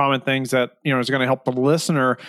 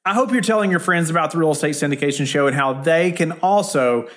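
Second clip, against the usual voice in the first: podcast outro read; 2 semitones higher than usual. Acted. Host thanks listeners and asks them to subscribe, outro read. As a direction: deliver a rehearsed show outro. Host reads the show's sign-off.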